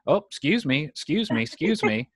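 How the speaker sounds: imitating hurried, repeated little apologies; acted apologetic excuse-me. Groom-to-be passing everybody in line, mock apologetic. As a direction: act out squeezing politely through a crowd. Squeezing past the staring queue.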